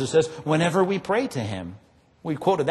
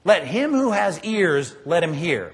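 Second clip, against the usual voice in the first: slow quote; slower than usual. Retold or imitated. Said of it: "He said this phrase all the time".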